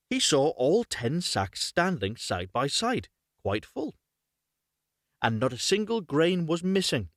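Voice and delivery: measured, clearly phrased fairy-tale reading; story narration. Acted. Reads a fairy tale aloud.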